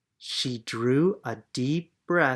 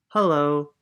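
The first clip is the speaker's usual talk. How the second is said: friendly louder group greeting; neighbours' hello; 2 semitones higher, 6 dB louder than usual. Acted. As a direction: greet her like kind neighbours. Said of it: "replied the people over the wall".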